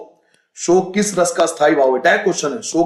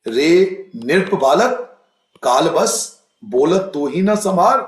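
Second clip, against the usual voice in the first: put-on slow, stern scolding of a boy; mock angry scolding; 2 semitones higher, slower than usual. Shown as a demonstration. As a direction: scold the young prince in anger. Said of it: "मैं गुस्से में डांट रहा हूं". (गुस्से में बालक को डांटना)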